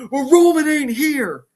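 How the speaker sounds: high, loud acted outburst; mock indignant retort. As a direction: throw it back in an imitated argument. Brother retorts in acted argument.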